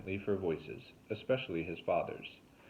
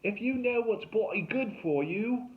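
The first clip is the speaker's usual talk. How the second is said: slow, loud, high bark in a put-on Aussie accent; drawn-out, hammed-up Australian warning; barked threat; 5 dB louder than usual. A narrator's reading. Derek warns off the kids, barking. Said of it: "Derek barked".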